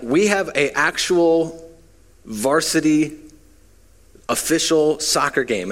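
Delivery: high, deliberate British coach; British accent. Retold or imitated. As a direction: spell it out slowly as an imitated, indignant Brit. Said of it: "it's really important that you get the accent".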